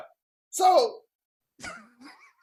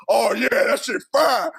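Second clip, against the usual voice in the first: mock praise; slower than usual. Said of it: "I want to talk about".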